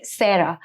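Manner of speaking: "Sarah" as SAIR-uh, imitating the manager; mispronounced name. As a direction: say "Sarah" with an "eh" vowel. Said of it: "my name being mispronounced".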